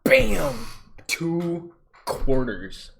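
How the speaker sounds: loud, high, slow reveal; loud triumphant announcement; excited shout. Real, not acted. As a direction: punch out the payoff. Reveals the payout.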